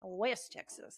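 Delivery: softly imitated West Texas accent; terrible Texas accent. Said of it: "This is a terrible accent that I'm using".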